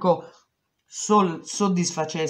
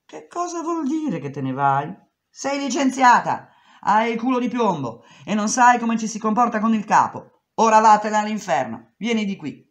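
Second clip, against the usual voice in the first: furious boss; 7 semitones higher, 6 dB louder than usual. Retold or imitated. Boss fires her, shouting.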